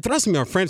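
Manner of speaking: "Trust" comes out as "thrust", with a th sound and a rolled r, then a light "my friend"; Giannis's trust. Retold or imitated. Analyst playfully mimics Giannis, "Trust" said with th. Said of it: "says trust when they put the R and try to roll and they said thrust".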